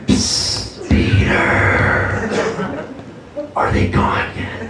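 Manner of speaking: unvoiced hush from the cross; whispering Jesus. Jesus whispers to Peter on the cross. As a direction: whisper it like nobody should hear. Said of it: "He'd be up there like".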